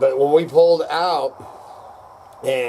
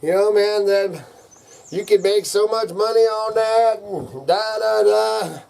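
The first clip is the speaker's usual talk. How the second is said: high excited buddy voice; rowdy redneck; 7 semitones higher, 3 dB louder, slower than usual. Retold or imitated. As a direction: hype it up like a hick pal. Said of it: "I had people say".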